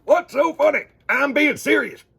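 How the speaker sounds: high, loud fake indignation; mock-serious skit voice. Boy performing a Cub Scout skit, high loud mock seriousness. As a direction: play it straight as a joke. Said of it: "Then I put my own hands in".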